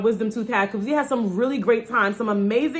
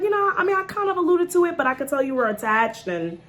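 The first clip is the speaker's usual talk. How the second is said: tooth voice; 5 semitones higher than usual. Pretend. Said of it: "she was like".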